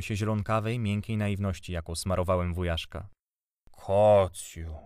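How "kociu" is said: drawn-out, louder kindly coo; kindly aunt. A narrator's reading. Aunt calling to her husband from the doorway, kindly. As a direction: coax him indulgently, stretching the word. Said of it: "rzekła dobrotliwie ciocia".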